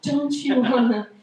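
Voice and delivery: slow, coaxing come-hither voice; seductive hometown. Pretend. Hometown sweet-talking a broke ex-resident, slow and coaxing. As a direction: lure her home, drawn out and sweet.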